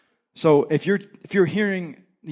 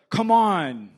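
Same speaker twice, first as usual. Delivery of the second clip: exasperated; 5 semitones higher, 5 dB louder than usual. Acted. Exasperated king prodding the prophet.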